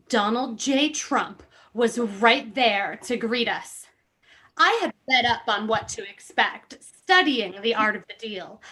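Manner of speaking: reading a memoir aloud with mock gravity; lightly hammed-up reading of a memoir; dramatic book reading. Host reads Ed Russo's book to friends, mock-dramatic reading.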